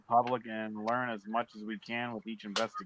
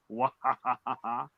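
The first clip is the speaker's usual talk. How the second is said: slow cartoonish evil laugh; villain laugh, drawn out; slower than usual. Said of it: "a cartoonish evil laugh".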